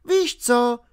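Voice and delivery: put-on high-pitched girl snapping back; sharp retort. A narrator's reading. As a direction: snap back in a high girl's voice. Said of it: "odsekla mu Alenka". (odseknutí vysokým dívčím hlasem)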